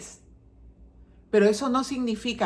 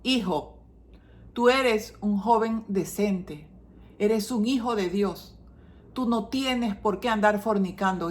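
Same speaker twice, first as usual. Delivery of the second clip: correct gentle way. Shown as a demonstration. Mother correcting her son the right way, calm and loving. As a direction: speak to the son calmly and lovingly. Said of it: "La forma correcta es".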